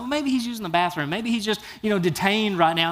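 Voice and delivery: half-playful mock of the false prophets; mocking taunt. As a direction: poke fun at them with a lightly voiced sneer. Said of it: "he just keeps taunting them".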